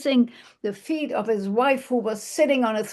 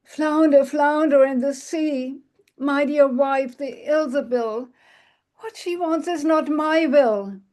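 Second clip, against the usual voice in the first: calling out; 5 semitones higher than usual. Acted. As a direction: call the fish over a storm. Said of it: "when he shouted out".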